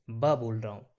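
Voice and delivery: "ब" with a strong b; full b sound. Shown as a demonstration. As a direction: push hard on "ब". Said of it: "पूरा जोर दे रहा हूँ". ("ब" पूरे जोर से)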